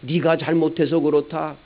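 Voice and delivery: jab the blame at the wife; mock blaming husband. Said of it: "남편은".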